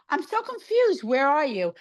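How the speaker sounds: high-pitched baffled sister; mock confusion. Sister texts her, confused by the plans, imitated in high-pitched bafflement. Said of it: "my sister's so confused".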